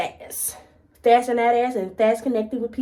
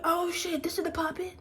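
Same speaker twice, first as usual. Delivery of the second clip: a sudden, much softer "oh shit" under the breath; hushed alarm; 5 semitones higher, 9 dB quieter than usual. Retold or imitated. Realising the big coworker is right behind her, hushed alarm. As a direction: drop the voice as you spot her behind you.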